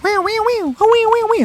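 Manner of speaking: very high, meowing like a cat down the phone; alien cat caller. Retold or imitated. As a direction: squeak out alien meows, way up high. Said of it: "the fucking guy was like".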